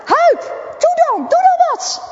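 high, loud frantic cries for water; panicked shouting. Acted. Rick yells at Huip to help his burning friend. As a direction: yell for help as if the fire is right there.

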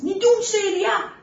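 loud, high yell in his sleep; high-pitched sleep-talking shout. A narrator's reading. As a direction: cry out in alarm from a bad dream. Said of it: "gilt hij".

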